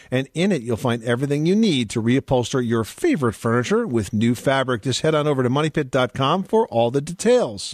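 upbeat sweepstakes promo read; booming prize announcer. Acted. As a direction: sell the prize with energy.

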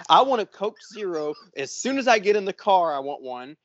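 mildly annoyed imitation of a demanding wife; retold fuming. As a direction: lay down her demands with a touch of mock anger. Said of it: "smoke was coming out of her ears".

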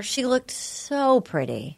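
"so" stretched out slowly; slow down and linger on "so"; gushing emphasis. Real, not acted. Host admires contestant at dinner, gushing with a long "so".

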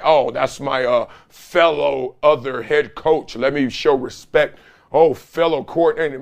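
lightly mocking the polite coach fraternity; mock fraternity talk. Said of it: "fraternity talk of like".

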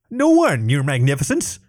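high, small kobold voice; a meek little lizard servant; timid kobold. Acted. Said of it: "the leader said".

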